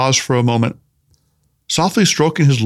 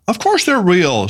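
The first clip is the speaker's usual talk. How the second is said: "course" and "real" drawn out, slow and higher; slow, raised emphasis on "real"; emphatic; 5 semitones higher, slower than usual. A narrator's reading. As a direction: insist slowly that they're "real". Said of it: "said Tanaka emphatically".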